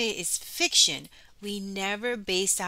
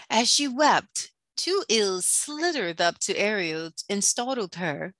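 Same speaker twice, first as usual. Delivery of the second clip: dramatic storyteller with punched key words; children's story reading; 3 dB louder than usual. A narrator's reading. Teacher reading The Little Mermaid to children, dramatic storytelling. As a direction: read it aloud to children, theatrically.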